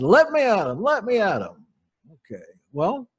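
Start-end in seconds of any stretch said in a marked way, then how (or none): 0.0-1.7 mild mock fury. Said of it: "She was mad".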